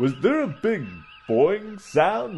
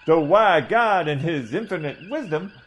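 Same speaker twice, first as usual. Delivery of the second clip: blustering Southern gentleman orator, a touch higher; pompous southern doctor; 6 semitones higher than usual. Acted. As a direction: hold forth like a pompous old Southern colonel. Coburn scolds Welsh.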